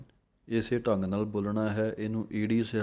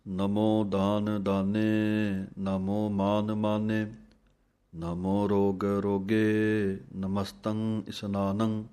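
slow, measured chant of verses; scripture recitation; much slower than usual. Acted. Teacher recites Jaap Sahib for students, slow chant. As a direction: recite each line with reverence.

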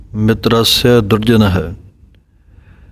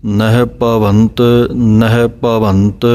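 unhurried, evenly spaced words; slow with pause; slower than usual. Shown as a demonstration. Teacher demonstrating the pause in ਨਹਿ ਭਵੰਤ, slow. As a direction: say ਨਹਿ ਭਵੰਤ slowly, pausing between repeats. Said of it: "ਥੋੜ੍ਹਾ ਜਿਹਾ ਰੁਕ ਕਰਕੇ".

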